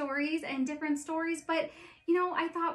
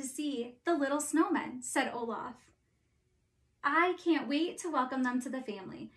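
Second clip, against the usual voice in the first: story narration. A narrator's reading. Reads Frozen story aloud.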